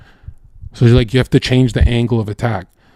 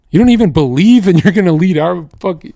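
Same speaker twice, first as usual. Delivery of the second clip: scornful retort; 6 semitones higher, 3 dB louder than usual. Acted. Scornful retort to Peterson's argument.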